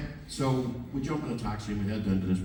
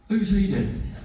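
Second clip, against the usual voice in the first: mock bloke through laughter; 10 semitones higher, 6 dB louder, slower than usual. Fan sizing up the pop star.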